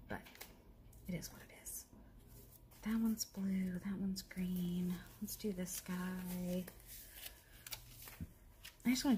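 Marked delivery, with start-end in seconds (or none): 0.1-1.9 soft whispered aside; whispering. Real, not acted. Whispered aside while crafting. 2.8-6.6 slow whisper to yourself. Real, not acted. Whispering to herself while crafting.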